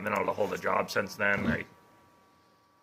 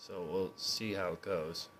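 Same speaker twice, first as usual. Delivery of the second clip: teary-eyed. Real, not acted. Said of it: "I get a little teary-eyed".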